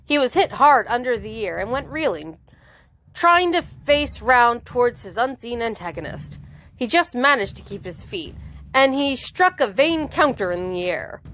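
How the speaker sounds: animated audiobook reading; measured, dramatic storytelling; story narration. A narrator's reading. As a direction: read the action out crisply to listeners. Reads the novel aloud.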